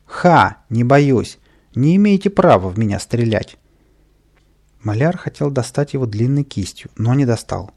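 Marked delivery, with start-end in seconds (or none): 0.1-3.6 cocky taunt. Acted. Kapriska emboldened taunting crowd.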